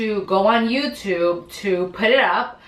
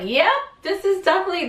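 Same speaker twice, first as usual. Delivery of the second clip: certain; 11 semitones higher, faster than usual. Retold or imitated. Sees the puddle on floor.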